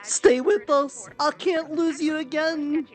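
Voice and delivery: usual speaking voice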